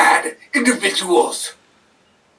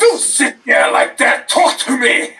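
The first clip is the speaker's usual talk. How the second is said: angry shout; 5 semitones higher than usual. Acted. Wrestler confronting silent interviewer.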